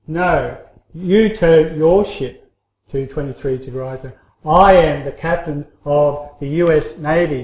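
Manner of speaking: slow, firm, commanding tone. Retold or imitated. Captain pulling rank over the radio, mildly commanding. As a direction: give the order like a navy captain, lightly played. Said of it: "in his commanding voice".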